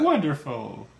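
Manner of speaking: high, bright peppy cheer; a chirpy co-host; peppy female voice. Retold or imitated. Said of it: "the peppy female".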